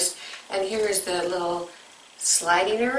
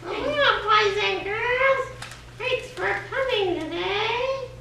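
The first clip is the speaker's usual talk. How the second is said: put-on old hag; 12 semitones higher, much slower than usual. Silly high voice to children.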